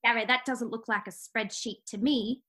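a put-on English accent, nagging wife; British accent. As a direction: play an annoyed English housewife with a light British accent. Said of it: "I like your accent".

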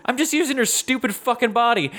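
high, quick screechy spirit; angry wraith. Acted. Wraith explains the stolen look, angry high screech. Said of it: "It is an angry wraith".

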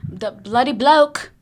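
put-on British accent. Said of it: "say this in best British accent wins".

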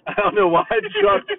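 talking around a phone in mouth; words muffled by the phone; phone held in teeth. Real, not acted. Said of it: "putting the phone in my mouth".

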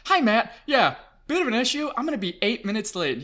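high, quick phone apology; flustered hurry. Retold or imitated. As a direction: rush out the bad news brightly to your idol. Flustered apology call to idol.

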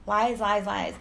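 fed-up aside, leaning hard on each phrase; exasperated. Real, not acted. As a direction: stretch the key words in disbelief. Outraged aside about the lying parents.

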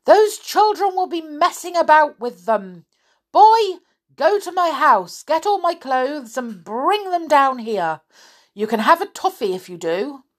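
put-on high, loud scolding old woman; bossy old woman. Old woman ordering Rick off, high and loud. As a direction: bark orders like a fierce old lady.

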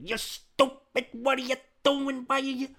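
very high, squeaky little-guy voice; scolding little sidekick. Acted. Little monkey scolding the ostrich, high exasperated voice. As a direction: berate your dim partner in a tiny voice. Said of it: "the monkey's the little guy".

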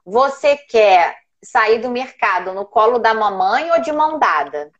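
put-on calm parent soothing a child; measured, patient mother voice; gentle but firm. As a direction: reason tenderly with an upset child, unhurried. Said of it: "Falei assim".

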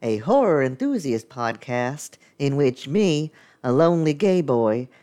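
scripted podcast welcome; podcast intro. Acted. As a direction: read it out as a show opener.

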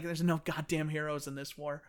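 low mock mumble under the breath; muttering under breath. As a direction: imitate a weary commander muttering to himself. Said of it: "he mumbles under his breath".

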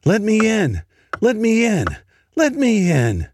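put-on high, insistent little girl repeating the demand; the child turns insistent at the door. Shadow thing demands to be let in, high insistent child voice.

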